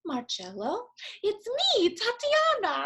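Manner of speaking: high, loud call of a name across a room; high, loud excited greeting. Retold or imitated. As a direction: call out like a friend bursting in happily. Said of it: "and I hear".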